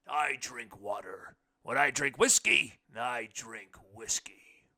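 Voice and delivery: slow, dropping to a whisper at the end; Irish actor's whiskey line, slowly; Fitzgerald punchline. A narrator's reading. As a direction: deliver the punchline slow and hushed. Quoting Barry Fitzgerald's joke.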